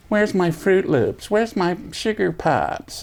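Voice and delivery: high, slow whining; mock the spoiled officers' whine; whiny sailors. Mess cook mimics officers whining for cereal, high and slow. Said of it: "these guys whining".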